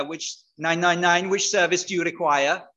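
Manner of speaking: badly faked Welsh operator; attempted Welsh accent. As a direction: have a rough go at a Welsh accent. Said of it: "they always do it with a Welsh accent".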